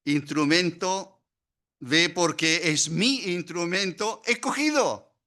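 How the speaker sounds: God speaking to Ananias. Acted. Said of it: "el Señor le dice".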